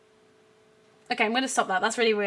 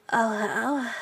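sexy; 4 semitones lower than usual. Shown as a demonstration. Streamer offering a second version, mildly sexy voice. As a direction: say it as a mild come-on. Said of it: "Should I do sexy awa?".

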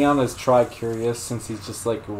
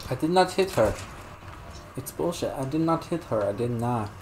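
Tommy Wiseau impression; 3 semitones higher than usual. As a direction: play the cult movie outburst. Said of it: "Oh, hi, Mark".

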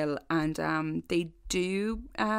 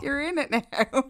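teasing high mock; 7 semitones higher, 4 dB louder than usual. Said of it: "And I was like".

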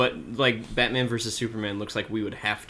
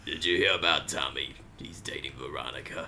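low, hushed gossiping whisper; gossipy whisper; 8 semitones lower, 5 dB quieter than usual. Pretend. Gossiping old lady skit.

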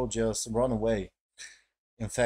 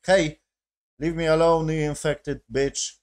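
loud, higher shout, slowing at the end; mock angry yell; 3 semitones higher, 5 dB louder than usual. Reviewer retells Joey pointing a gun at the girl, mock angry yell. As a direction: bark it like a man with a gun.

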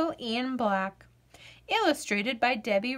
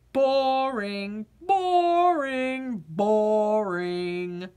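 bored potato; 2 semitones lower, much slower than usual. Acted. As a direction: sound like a vegetable with no fun left. Potato repeats dismissal.

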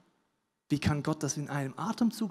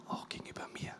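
whispered; 16 dB quieter, faster than usual. Acted. Preacher to congregation, turning inward: whispered. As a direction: drop to a whisper on the last words.

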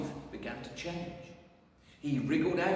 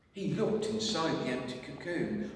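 ordinary delivery

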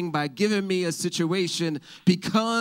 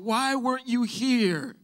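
hurt question; 9 semitones higher than usual. Acted. Mary's imagined hurt question.

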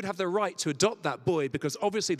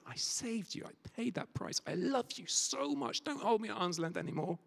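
tender plea; 3 semitones higher, 6 dB quieter than usual. Acted. Jesus speaking to listener.

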